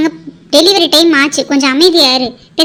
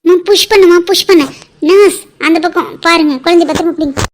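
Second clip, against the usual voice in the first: urging push; 3 semitones higher, 5 dB louder than usual. Acted. Doctor coaching the mother to push, loud and urgent. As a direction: drive the mother on, loudly.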